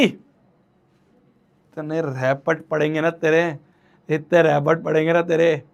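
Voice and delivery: low, drawn-out mock warning; mock threat. Teacher jokingly threatening a student with slaps, low mock menace. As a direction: threaten a slap in a low, slow voice.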